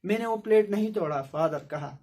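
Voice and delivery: ordinary talk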